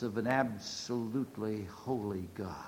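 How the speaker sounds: whispered, hushed in reverence; awed whisper. Real, not acted. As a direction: drop to a breath of awe. Awe at God's holiness.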